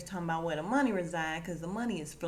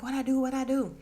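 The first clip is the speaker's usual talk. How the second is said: higher, louder panicked question; mock terrified; 7 semitones higher, 5 dB louder than usual. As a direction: act out a frantic plea for help. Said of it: "She's terrified".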